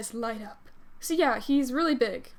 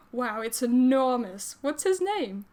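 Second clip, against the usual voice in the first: put-on Gavin's accent; slower than usual. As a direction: attempt Gavin's accent, drawing out the wonder. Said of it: "My accent keeps changing".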